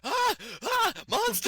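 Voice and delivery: very high, loud fake-terrified shriek; hammed-up monster scream; mock scream. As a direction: squeal like the scared kid. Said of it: "facing your direction going".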